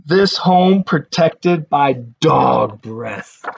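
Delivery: slow, deliberate reading of a sign. Shown as a demonstration. Reading the sign on the page, slow and deliberate. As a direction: read the sign word by word. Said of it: "And it says".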